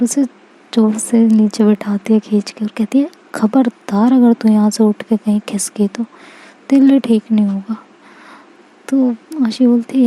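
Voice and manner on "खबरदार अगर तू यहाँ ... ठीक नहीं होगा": threatening whisper. Acted. Anjali threatens Aashi, pulling her down.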